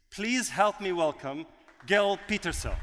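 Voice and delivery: host booming the keynote speaker's name; announcer build-up. Real, not acted. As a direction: call the name out to the room, building it up.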